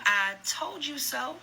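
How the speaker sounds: drawn-out, slow "I told you so"; mock scream. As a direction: gloat it slowly, a scream only in name. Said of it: "we steady gonna scream".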